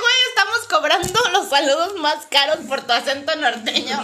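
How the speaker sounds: laughing retort. Retold or imitated.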